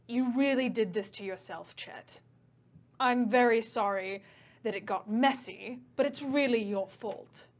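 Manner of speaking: light British villain, calm and regretful; British accent. Acted. Game master voicing the Ifriti to Chet, lightly British. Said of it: "I just made him British".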